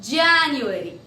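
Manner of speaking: JANUARY stretched out and enunciated; careful pronunciation demo. Shown as a demonstration. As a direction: model "January" slowly for learners. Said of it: "I repeat".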